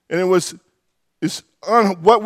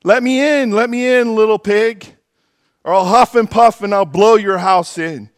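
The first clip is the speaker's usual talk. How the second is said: wolf voice; 5 semitones higher, 3 dB louder than usual. Acted.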